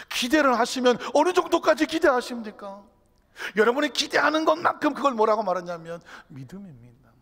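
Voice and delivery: loud, high challenge from the pulpit; full-force preaching. Real, not acted. Preacher challenging the congregation's expectations, full-force preaching. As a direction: press the question hard on the listeners.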